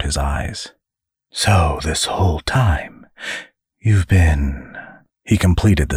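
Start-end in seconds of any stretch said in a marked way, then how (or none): 1.3-4.8 lightly voiced insinuating demon; a hint of a leering demon; the demon hints at the angel's affairs; sly demon.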